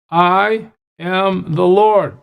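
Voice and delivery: "I am the Lord" slowed, weight on "Lord"; slow emphatic declaration. Shown as a demonstration. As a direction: lean on "Lord" slowly. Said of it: "He keeps emphasizing this to us".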